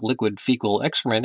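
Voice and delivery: soft, understated airline captain; pilot voice. Acted. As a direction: say it as a quiet pilot announcement. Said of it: "him in the pilot voice".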